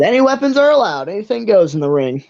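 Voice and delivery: lightly voiced ticketmaster, starting high. Ticketmaster laying out the ring rules, lightly put-on official voice. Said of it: "the Ticketmaster says".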